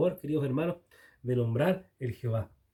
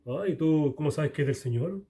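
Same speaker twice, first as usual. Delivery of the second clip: know-it-all brother. Retold or imitated. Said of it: "uno de estos hermanos sabiondos".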